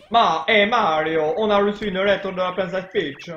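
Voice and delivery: lightly hammed-up Italian accent; game dubbing in a rough Italian accent; bad Italian accent. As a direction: put on a cheesy Italian accent. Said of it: "refaire l'accent italien dégueulasse".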